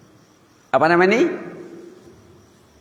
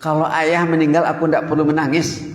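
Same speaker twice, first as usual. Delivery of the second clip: put-on mildly raised, matter-of-fact child's reply; child's frank retort; 2 semitones higher than usual. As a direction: answer the parent plainly, only lightly acted. Anak menjawab ayahnya, pertama kali. (jawaban anak yang lugas, sedikit ditirukan)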